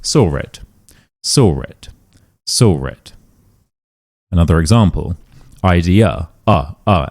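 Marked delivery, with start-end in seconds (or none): 0.0-3.1 "saw it" with an added R, sor-it; intrusive R. Shown as a demonstration. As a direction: link "saw it" using an R. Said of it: "So we add this r".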